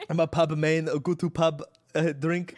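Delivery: a hammed-up fake British accent; mock British accent. Streamer mocking British people, hammy British accent. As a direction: lay on a cheesy British twang. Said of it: "that's not an accent".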